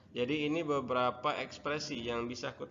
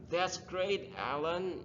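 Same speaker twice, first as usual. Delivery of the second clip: higher, lively intonation, not flat; expressive praise; 6 semitones higher, much slower than usual. Shown as a demonstration. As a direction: say it with real feeling, not flat. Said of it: "jangan datar aja".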